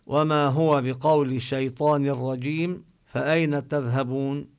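chanted Quran verse, drawn out; Quran recitation. Acted. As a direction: recite the verse slowly and carefully.

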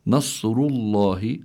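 نصر الله drawn out slowly with a heavy, emphatic ra; tafkhim. Shown as a demonstration. Teacher models the heavy letters of the verse, with slow tafkhim. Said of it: "حكمها التفخيم".

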